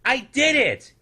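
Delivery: high, loud cry of success; little snoodle yelling his triumph; triumphant yell. A narrator's reading. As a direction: shout it to the whole town. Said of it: "he yelled to the snoodles".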